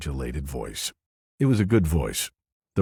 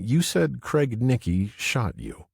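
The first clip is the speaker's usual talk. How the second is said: matter-of-fact; 8 semitones higher, slower than usual. A narrator's reading. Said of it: "he said in a matter-of-fact voice".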